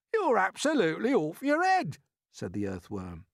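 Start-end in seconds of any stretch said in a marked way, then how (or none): 0.1-2.0 outraged cry. A narrator's reading. Earthworm scolding, loud.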